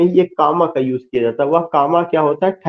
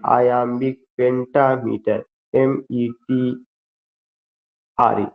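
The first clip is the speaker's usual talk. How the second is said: measured letter-by-letter spelling; dictation; 3 semitones lower than usual. Acted. Teacher spells out iambic pentameter for students, measured dictation. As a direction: spell the term out for note-takers.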